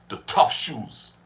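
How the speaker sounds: slow ad voice; slogan read slowly. Retold or imitated. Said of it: "The advertisement used to go so".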